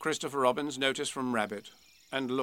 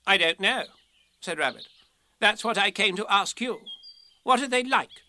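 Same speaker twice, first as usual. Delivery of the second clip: impatient Rabbit, puzzled; 5 semitones higher, 4 dB louder than usual. Acted.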